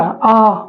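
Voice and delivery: long, drawn-out open "आ"; "आ" sustained, tongue slightly back; long vowel. Shown as a demonstration. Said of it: "अब दीर्घ आ".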